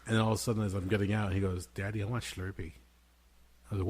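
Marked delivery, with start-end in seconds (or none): 1.7-2.7 "Slurpee" said with an sh, as "Shlurpee"; child's pronunciation. Retold or imitated. Dad imitates son asking at seven eleven, "Slurpee" slurred to "Shlurpee". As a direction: slip an H into "Slurpee", like a small child. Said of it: "I like the way he says it too".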